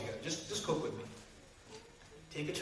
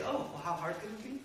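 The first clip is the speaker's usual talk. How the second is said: sarcastic; 6 dB quieter than usual. Retold or imitated. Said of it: "And then you say".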